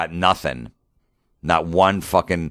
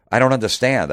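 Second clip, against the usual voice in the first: higher, louder imitation of a baffled woman; mock bafflement; 8 semitones higher, 5 dB louder than usual. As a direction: mimic her failing to get it. Retelling agency woman's baffled reaction.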